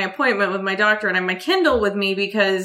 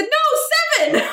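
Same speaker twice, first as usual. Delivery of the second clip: laughing correction; much slower than usual. Retold or imitated.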